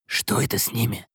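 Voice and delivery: soft, hushed question; whispered aside. Acted. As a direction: lean in and whisper. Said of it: "шепнул он Хэппи". (шёпотом)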